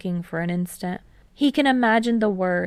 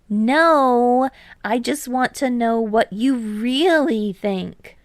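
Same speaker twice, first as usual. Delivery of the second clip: put-on higher, louder boyish teammate; Hinata, eager; 4 semitones higher, 4 dB louder, slower than usual. A narrator's reading. Hinata bragging to Kei about deflections, higher, louder and eager. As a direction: bounce up, brag a bit.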